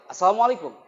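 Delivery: a bright, shouted "Assalamualaikum." to the room; loud greeting. Shown as a demonstration. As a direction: belt out "Assalamualaikum." with full energy. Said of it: "Cepet ya?".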